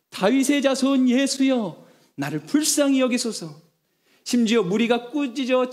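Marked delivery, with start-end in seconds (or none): 0.1-3.6 slow, raised pleading call, retold; mild mock cry out. Blind men crying to Jesus, pleading call. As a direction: call out to Jesus, not full volume. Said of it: "거침없이 이렇게 소리쳤어요".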